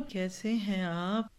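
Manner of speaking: slow, soft, courteous question; polite and gentle. Shown as a demonstration. Teacher demos a gracious greeting to a guest. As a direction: ask kindly, taking your time. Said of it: "तकल्लुफ़ है मेरी ज़ुबान में".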